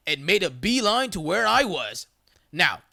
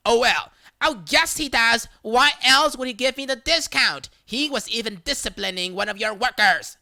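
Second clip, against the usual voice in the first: louder, indignant insistence; insistent protest; 4 semitones higher, 4 dB louder than usual. Retold or imitated. Customer insisting to the manager he works here, indignant. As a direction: argue back hard.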